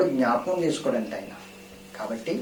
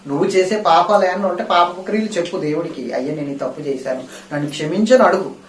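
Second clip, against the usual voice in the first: raised, fast, fervent sermon delivery; full-force preaching; 5 semitones higher, 6 dB louder than usual. Acted. Pastor pressing the congregation, preaching at full force. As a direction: drive the question home to the church.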